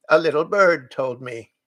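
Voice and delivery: a lightly voiced sly goat. A narrator's reading. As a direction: drop the hint slyly. Goat jokes.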